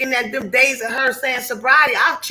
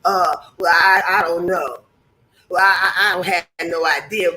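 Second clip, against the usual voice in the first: mock clueless excuse; 5 semitones lower than usual. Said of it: "How many times we gonna sit back here and say".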